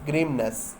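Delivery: ग्रीमनेस said whole, in a falling tone; teacher's model pronunciation. Shown as a demonstration. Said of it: "ग्रीमनेस बोलेंगे". (ग्रीमनेस साफ़ और पूरा बोलें)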